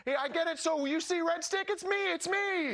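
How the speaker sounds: high, gleeful imitated foreign accent; happy Tomas Hertl accent. Hockey player happily showing off red stick, imitated foreign accent. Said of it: "like, all happy and like".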